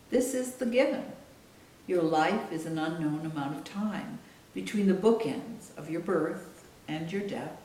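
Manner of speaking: measured book reading with deliberate pauses; solemn literary reading, spaced out; author reading aloud. Acted. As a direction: read your own memoir aloud, phrase by phrase. Reads chapter aloud from her book.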